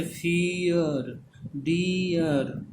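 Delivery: फियर and डियर stretched slowly, "ee" gliding into "uh"; teacher sounding out फियर, डियर slowly; drawn-out vowel glide. Shown as a demonstration. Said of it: "जैसे ई अ का sound है".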